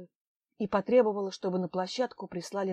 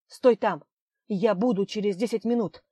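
loud, curt command; a sharp barked instruction; barked order; 6 dB louder than usual. Acted. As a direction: bark the order at her. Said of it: "рявкнул Астраханский".

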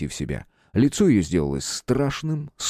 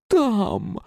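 pained cry; 13 semitones higher than usual. A narrator's reading. Woman in agony points.

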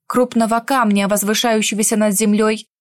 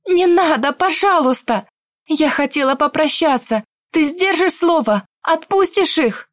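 desperate pleading; 5 semitones higher than usual. Acted. Heroine begs the mage.

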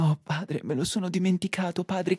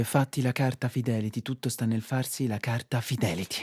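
quoting father; 7 semitones lower, 6 dB quieter than usual. Retold or imitated. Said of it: "Mio padre mi dice".

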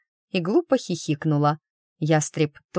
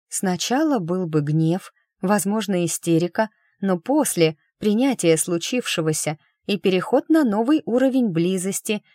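monotone; 2 semitones higher than usual. Acted. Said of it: "монотонно ответила Эмма".

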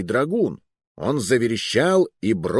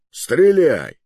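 loud, higher-pitched order to fire; sharp command; 6 semitones higher, 6 dB louder than usual. A narrator's reading. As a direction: order it with patience gone. Mercenary orders a shot, fed up. (резкий приказ)

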